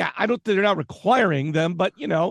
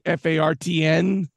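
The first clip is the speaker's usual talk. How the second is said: spelled slowly. Shown as a demonstration.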